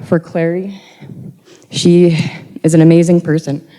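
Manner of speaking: fighting back tears, voice wavering; holding it together through emotion; steadying shaky voice. Real, not acted. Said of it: "Sorry, I'm getting a little emotional".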